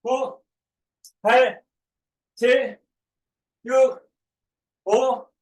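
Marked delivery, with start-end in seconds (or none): none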